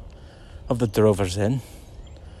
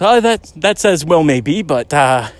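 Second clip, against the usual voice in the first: mock indignant shout; 4 semitones higher than usual. James blaming them for the broken coffee pot, mock angry shout. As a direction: shout the complaint like he's playing angry. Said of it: "And James, he goes".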